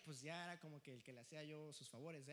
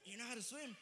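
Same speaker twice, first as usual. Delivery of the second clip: calling out; 4 semitones higher than usual. Retold or imitated. Calling to kids in pool.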